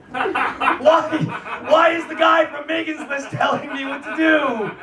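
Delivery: high-pitched, indignant retelling; incredulous. Retold or imitated. Telling the crowd his reaction at the meeting, incredulous.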